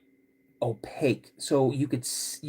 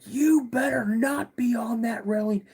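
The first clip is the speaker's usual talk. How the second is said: dad's warning, pitched well higher; stern dad; 9 semitones higher than usual. Retold or imitated. Dad calling from inside the cabin, mock stern warning. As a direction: call out a warning like a suspicious father. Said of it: "He's like".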